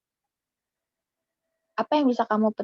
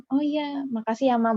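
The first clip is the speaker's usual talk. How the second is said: joking thanks; 5 semitones higher than usual. Retold or imitated. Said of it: "mungkin nadanya bercanda".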